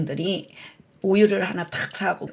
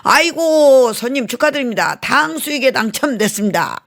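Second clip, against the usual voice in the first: mock cheerful congratulations; 8 semitones higher, 7 dB louder than usual. Restaurant owner's congratulating spin.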